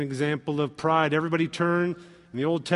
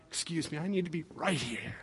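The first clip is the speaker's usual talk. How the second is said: mock fussy groomsman; 2 semitones lower, 13 dB quieter than usual. Groomsman jostling for the photo.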